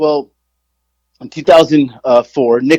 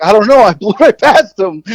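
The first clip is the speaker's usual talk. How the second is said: sheepish retold reply; 6 semitones higher, 4 dB louder than usual. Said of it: "I'm like".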